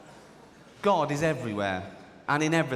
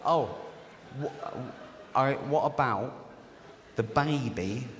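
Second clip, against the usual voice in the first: flustered Mary; 2 semitones lower than usual. Acted. Acted Joseph and Mary dialogue.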